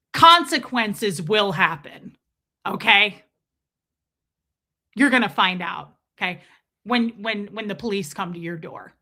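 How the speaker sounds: mimicking him being tone forty; tone forty threat. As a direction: lean on every word like a threat. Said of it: "very tone forty with you guys".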